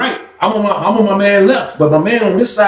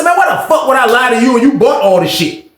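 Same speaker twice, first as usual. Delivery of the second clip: retold shout; 8 semitones higher than usual. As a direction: yell it at him, fed up. Heated argument with Frank.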